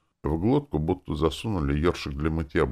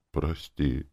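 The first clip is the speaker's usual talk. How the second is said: whispered plea; 5 dB quieter than usual. Acted. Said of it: "прошептал маг".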